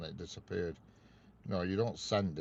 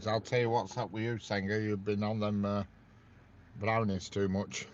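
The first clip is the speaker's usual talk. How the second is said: louder, teasing tell-off; mock scolding; 2 semitones higher, 6 dB louder than usual. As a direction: wag a finger at her, half joking. Teasing viewer about eating brownies.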